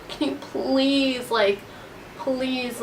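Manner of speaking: small, soft begging, drawn-out please; imitating a quiet plea; retold pleading. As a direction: plead softly, stretching the word please.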